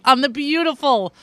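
slow and earnest, savoring it; wholehearted. Real, not acted. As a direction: linger on it with real enthusiasm. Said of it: "and I say this wholeheartedly".

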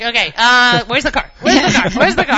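loud, high, repeated urgent question; hammed-up hurry to get away; mock panic. Mother acting out wanting to flee the store, mock panic. Acting parents' embarrassed getaway.

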